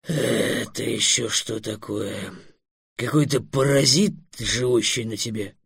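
low, soft, very slow concern; sympathetic dragon. A narrator's reading. Dragon spotting a creature on Trix, sympathetic. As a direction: draw it out gently, with pity. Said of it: "сочувственно сказал".

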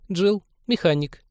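very high, slow squeak; squeaky blonde. A narrator's reading. Blonde mechanic introducing herself to the patrol guests, squeaky. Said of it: "пискнула блондинка".

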